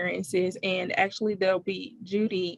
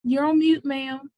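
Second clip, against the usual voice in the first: calling out; 5 semitones higher, 5 dB louder than usual. Real, not acted. Telling a muted speaker.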